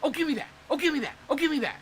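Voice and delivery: high, grabby mocking voice; greedy traders. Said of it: "they're like".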